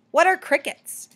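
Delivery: high, loud question; puzzled chipmunk. A narrator's reading. Chipmunk answers the bat's offer, high and puzzled.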